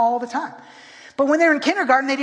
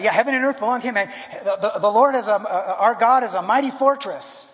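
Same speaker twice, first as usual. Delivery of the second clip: mock hymn reply; 4 dB louder than usual. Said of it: "you say, say back".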